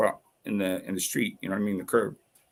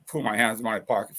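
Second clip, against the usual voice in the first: quick retort at usual pitch; defiant echo; faster than usual. Retold or imitated. Throwing the cop's order back at him, defiant. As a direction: toss the order back fast, mildly scornful.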